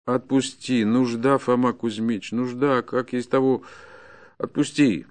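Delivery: a poor peasant's appeal; pleading. Acted. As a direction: plead out of need, pressing the point. Peasant begs forester for release.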